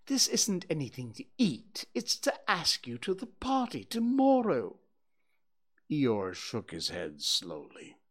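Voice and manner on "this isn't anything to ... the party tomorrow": high, pompous owl voice; a fussy, self-important owl announcing news; Owl's voice. Acted.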